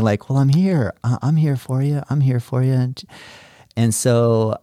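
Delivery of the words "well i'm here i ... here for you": reassuring dad. Retold or imitated. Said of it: "I kept saying".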